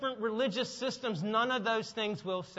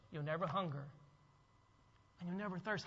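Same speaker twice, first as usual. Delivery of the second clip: hushed, tender call to come; soft, almost whispered welcome; gentle invitation; 6 semitones lower, 13 dB quieter than usual. Acted. Preacher voicing Jesus inviting the weary, very soft and tender. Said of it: "And Jesus says".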